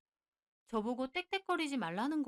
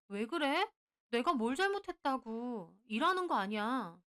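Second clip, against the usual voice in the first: upset. Acted. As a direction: confront him, a touch raised. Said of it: "기분이 확 상해서". (기분 상해서 따지듯)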